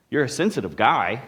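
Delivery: GUY pushed at the end; "guy" leaned on and stretched; stress on GUY. Shown as a demonstration. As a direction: land the emphasis on the last word, guy. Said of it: "you could emphasize any of those words".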